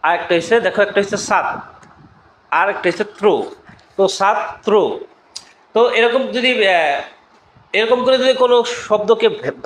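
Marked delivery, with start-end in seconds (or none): 3.2-3.3 ত্র sounded alone as "tro"; isolated syllable. Shown as a demonstration. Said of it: "শব্দটাকে কিন্তু ভাঙা যায়". 4.2-4.7 ছাত্র in two beats, "chhat", pause, "tro"; syllable break. Shown as a demonstration. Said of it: "এরকম ভেঙে উচ্চারণ করা যায়".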